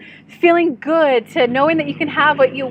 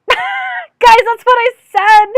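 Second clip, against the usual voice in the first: laughing; 10 semitones higher, 6 dB louder, slower than usual. Real, not acted. Laughing at her own fumbled answer.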